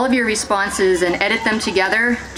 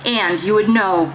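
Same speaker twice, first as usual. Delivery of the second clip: measured monologue with pauses between phrases; verbatim theater reading. Acted. Performer voices participants' lived experience to an audience, measured dramatic reading. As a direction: read the testimony aloud, phrase by phrase.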